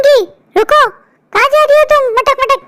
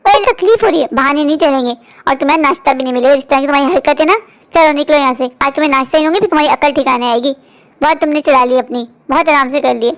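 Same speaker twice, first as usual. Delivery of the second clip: cruel threat; 10 semitones lower than usual. Acted. Stepmother threatens girl.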